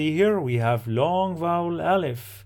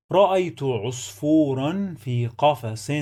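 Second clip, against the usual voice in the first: measured reading with long vowels held; careful teaching reading; 2 semitones higher than usual. Shown as a demonstration. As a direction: sound out each word clearly for learners. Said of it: "Let's read the sentence one more time".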